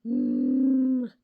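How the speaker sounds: growly Wookiee grumble; Chewbacca sound. Real, not acted. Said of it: "I just sound like Chewbacca".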